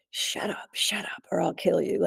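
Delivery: voiceless, menacing whisper of the intruder; whispered threat. Retold or imitated. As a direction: threaten her under your breath. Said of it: "he kept saying".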